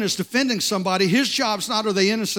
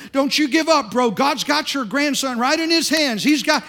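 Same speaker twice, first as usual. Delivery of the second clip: put-on loud, high, half-drunk insistence; loud slurred encouragement from a drunk guy; loud drunk preaching; 5 semitones higher, 3 dB louder than usual. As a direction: shout it like a tipsy stranger who means it. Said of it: "he starts talking real loud".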